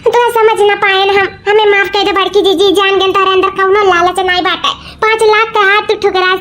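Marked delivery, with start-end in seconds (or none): 0.0-2.7 a crying plea for forgiveness; tearful apology. Acted. Sister begging her elder sister's forgiveness, tearfully. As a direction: apologise with tears catching the words.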